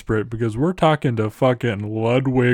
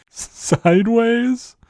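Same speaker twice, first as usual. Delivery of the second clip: shocked; 12 semitones higher, slower than usual. Acted. Beethoven outraged at the question.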